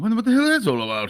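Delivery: high, fast, wide-ranging musing, rattled off.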